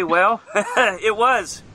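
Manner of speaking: laughing through the words; chuckling as he admits it. Real, not acted. Podcast host laughing at a listener's complaint.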